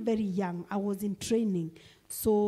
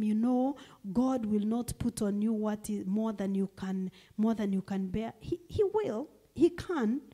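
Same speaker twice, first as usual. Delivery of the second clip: mock preachy cliché. Mocking a preachy funeral cliché.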